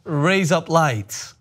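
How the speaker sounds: slow Australian drawl of raise up lights; Australian accent. Shown as a demonstration. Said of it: "you're saying razor blades in an Australian accent".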